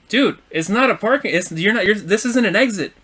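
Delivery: retold exasperated protest. Driver telling another it's no parking spot, retold exasperatedly. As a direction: act out correcting him irritably.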